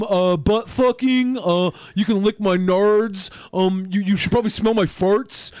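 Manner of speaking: lightly put-on nasal character voice; Rodney Whitaker voice. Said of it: "you sound like Matt, Monday Matt's character, Rodney".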